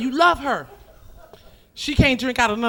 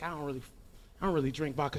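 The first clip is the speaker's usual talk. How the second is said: much softer polite decline; polite refusal; 7 semitones lower, 14 dB quieter, much faster than usual. Acted. Guest quietly turning down the vodka. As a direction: decline it meekly. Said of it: "you be like".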